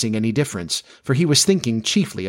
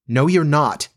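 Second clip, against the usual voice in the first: put-on higher, childish contradiction; boy's denial; 4 semitones higher than usual. A narrator's reading. Peter denying that Wendy is married, higher childish denial. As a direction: refuse to believe it, pitched up.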